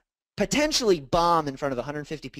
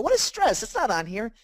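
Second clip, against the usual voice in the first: incredulous question; 8 semitones higher than usual. Retold or imitated. Retold asking counselor about stress.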